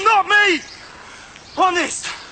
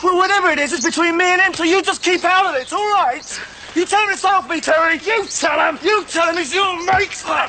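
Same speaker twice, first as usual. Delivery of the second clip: angry shout; 4 semitones higher than usual. Acted. Visitor shouts after being hit.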